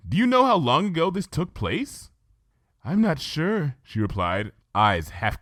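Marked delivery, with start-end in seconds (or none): 0.1-2.1 put-on shocked, halting young mare, a bit higher; stammering Twilight. Twilight voiced in story. 2.8-3.8 tremble the confession out gently; timid Fluttershy. Acted. Fluttershy voiced in story.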